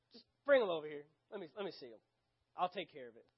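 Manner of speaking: resigned grumble, fading away; Jesus. Acted. Jesus takes over from his disciples, wearily frustrated. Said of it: "the frustration is".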